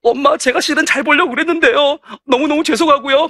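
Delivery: lightly acted tearful child; mock tearful apology. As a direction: apologise to mum as a child near tears. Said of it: "눈물 적절로 나오는 거죠".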